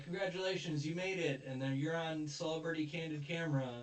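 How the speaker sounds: playful imitation of a show's big reveal; retold congratulatory reveal. Retold candid-camera reveal to contestants.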